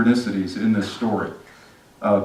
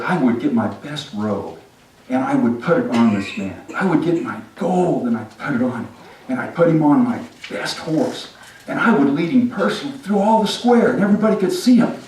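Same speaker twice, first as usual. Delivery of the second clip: Haman getting carried away; 4 semitones higher than usual. Acted. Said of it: "but he said".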